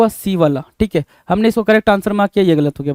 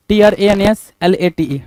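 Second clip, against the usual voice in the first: slow even letter-by-letter spelling; slower than usual. Shown as a demonstration. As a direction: dictate each letter clearly. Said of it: "translate हुआ ना". (धीरे-धीरे अक्षर बताना)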